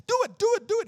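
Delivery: put-on high, pushy chant of a kid; ten-year-old boy. Boy nagging the teen through the service, high insistent voice. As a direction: keep nagging like an eager boy. Boy urging him repeatedly.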